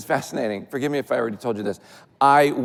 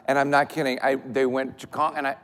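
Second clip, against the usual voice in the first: ordinary delivery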